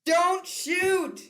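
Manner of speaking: high, panicked cry for mercy; pleading don't shoot; terrified plea. Acted. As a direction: beg them not to fire, voice jumping up. Director terrified of gun.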